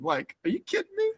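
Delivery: very high, squealing through laughter; can't believe it, cracking up; laughing disbelief. Real, not acted. Telling friends the fishing story, squealing with laughter. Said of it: "laughing disbelief".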